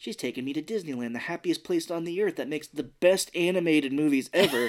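fast, gushing, laughing through it; giddy fast excitement. Retold or imitated. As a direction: gush about Disneyland. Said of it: "He's like".

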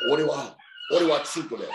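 feed the Japanese phrase in a put-on high voice; Fale. Wrestler friend teaching a Japanese phrase, put-on voice. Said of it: "this is my best Fale impersonation".

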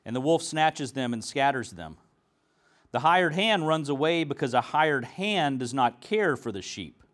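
measured, solemn Bible reading; scripture reading. Acted. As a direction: read the passage to the congregation. Reads the Gospel aloud.

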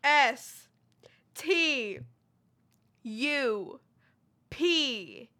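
spelling it out. Shown as a demonstration. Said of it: "Let me start over".

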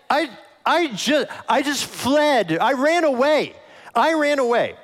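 high, loud, halting panic; panicked messenger. Retold or imitated. A messenger fresh from the battle blurts out the defeat in panic. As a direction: blurt it out in a frightened rush. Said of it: "You know, like".

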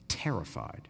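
breathy whisper on the word terrified. Acted. Pastor to congregation, whispering the disciples' fear. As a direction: hush the word as if afraid to say it.

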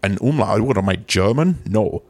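lightly slurred Scottish star, s turning to sh; comic impression with slushy s sounds; Sean Connery. Promising co-hosts a comeback, hammed-up Connery impression. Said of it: "All right, Mister Connery".

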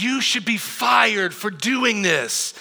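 slow, emphatic retold scolding; measured outrage, lightly acted; mock indignation. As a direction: imitate an angry mom, drawing out each word. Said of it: "she was so mad".

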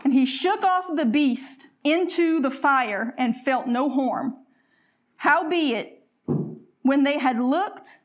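slow, lifted scripture reading. Acted. Preacher reading Acts to the congregation, slow and lifted. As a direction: read the Bible passage out, measured and slow.

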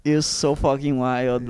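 slow, teasing sarcasm; sarcastic awe at a nerdy confession; mock awe. Real, not acted. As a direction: drag it out like mock admiration. Teasing about board game club.

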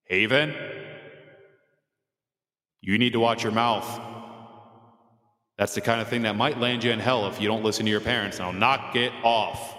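lightly voiced God telling off a child; imitating God. Father voicing God to scold his swearing daughter, mild mock stern. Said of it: "he'd probably say something like this".

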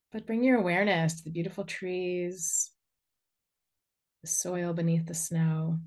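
unhurried guiding voice with long pauses; guided meditation. Real, not acted. Inviting listeners to send a cord into the earth, guided meditation. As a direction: lead them gently through grounding, phrase by phrase.

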